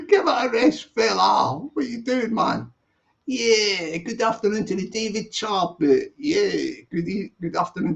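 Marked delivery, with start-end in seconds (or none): 0.1-1.6 laughing. Real, not acted. Teasing Big Vlad again.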